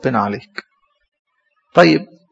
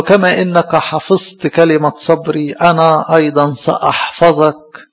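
slow, measured quoting of the verse; scripture reading; slower than usual. Acted. Priest quoting the angel's message, slow and measured. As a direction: let each word of the promise land slowly.

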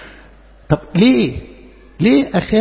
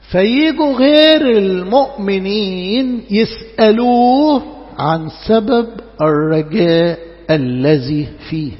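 slow, loud preaching build; 4 dB louder, much slower than usual. Real, not acted.

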